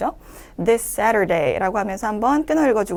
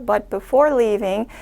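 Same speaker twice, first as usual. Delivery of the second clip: 1 slow phrase reading; much slower than usual. Shown as a demonstration. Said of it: "가시기 전에 be sure to visit".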